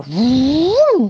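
loud high whoosh; whoosh sound. A narrator's reading. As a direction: swoop the word like wind. Monster rushes in.

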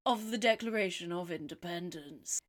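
mock spooky horror host; lightly hammed-up creepy welcome. Spooky host intro after theme.

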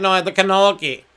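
"cannoli" said "can-OL-kee" with a K. Acted. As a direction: throw a K into "cannoli". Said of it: "why are you throwing K's in everything".

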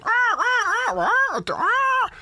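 high squawking gull calls; seagull cry. Retold or imitated. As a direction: screech like a seagull. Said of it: "doing gull noises".

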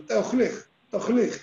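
"Ta'e, Ojlej, Tojlej" blurred into one word; run together. Shown as a demonstration. Teacher mimics the woman: "Ta'e, Ojlej, Tojlej" run together as one slur. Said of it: "todo junto".

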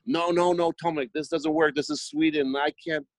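high-pitched panicky protest; panicked manager. Retold or imitated. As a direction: squeak out the refusal in a panic. Manager panicking in quoted exchange.

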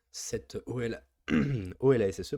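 voix enrouée, raclement de gorge; voix cassée. Real, not acted. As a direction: parle avec une voix fatiguée et enrouée. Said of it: "pardon, j'ai plus de voix". (voix éraillée)

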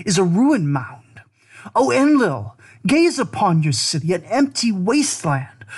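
a son begging his god father to return, voice lifted; pleading lament. Acted.

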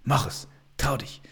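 whispered encouragement, urging gently; encouraging inner voice. Retold or imitated. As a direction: whisper it like the kind voice in your head. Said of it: "ich nenne sie konstruktive Stimme". (flüsternde, aufbauende innere Stimme)

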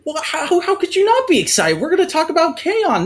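stammering, high and shocked; shocked disbelief. Acted. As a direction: sputter in disbelief.

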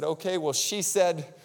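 lightly voiced child, halting before the word; long reluctant pauses, then blurt it out; reluctant little girl. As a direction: imitate a kid confessing a bad word. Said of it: "And she said".

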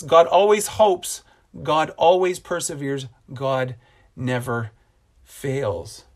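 measured reading of scripture; recited Bible passage. Acted. Reads 1 Corinthians 13 with God.

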